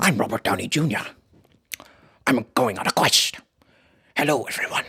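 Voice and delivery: low mumbled Robert Downey voice; Robert Downey Junior impression. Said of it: "Robert Downey Junior saying".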